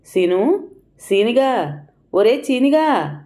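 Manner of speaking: mother overjoyed her son is alive; joyful calling. A narrator's reading. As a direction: call him with overflowing joy.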